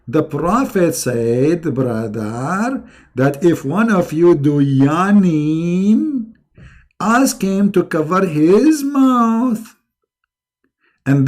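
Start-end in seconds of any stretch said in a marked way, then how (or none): 0.1-9.8 mock preacher. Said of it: "They show you only this part saying".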